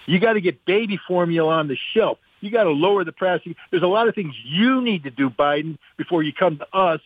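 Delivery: rising, exasperated everyman voice; voice of the American people. Retold or imitated. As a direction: play the fed-up voter making demands. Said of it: "the American people are going".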